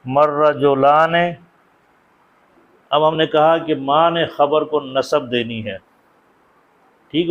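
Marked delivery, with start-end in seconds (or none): 0.0-1.1 مر رجلان read slowly, the r doubled; slow Arabic reading. Shown as a demonstration. Teacher reads the example phrase to the class, slowly. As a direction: model مر رجلان slowly and clearly. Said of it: "ما نے تو اس کو تو کچھ نہیں کہنا".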